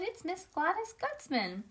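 high squeal of recognition, no real volume; excited shout. A narrator's reading. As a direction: announce the visitor high and thrilled. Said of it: "I shouted".

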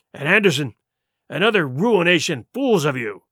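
vehement sea-dog with swinging emphasis; Silver, grimly scornful pirate. Acted. Silver warning his crew of hanging, grimly scornful. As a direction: make the crew dread the gibbet.

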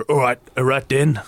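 shaky stab at a North Side Dublin accent; attempted North Side accent. Shown as a demonstration. Milkman as the speaker imagines him, tentative North Side accent. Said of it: "I can't do a North Side accent".

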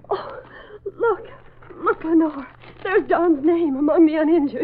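a touch of joy, rising as she spots the name; mildly thrilled, pointing it out; lightly excited discovery; joyful exclamation. Acted. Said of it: "Betty exclaimed joyfully".

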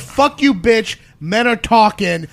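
hammed-up drunk cursing at the manager; drunk heckler yelling. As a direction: spit it like a drunk redneck. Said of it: "he goes".

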